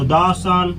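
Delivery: "द सन" said as duh sun. Shown as a demonstration. Teacher models the unique sun, the pronounced duh. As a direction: open short vowel in "द". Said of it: "article द लगता है".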